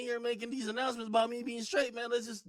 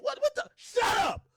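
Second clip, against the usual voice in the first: mock shout; 4 dB louder than usual. Imitating people shouting down straights.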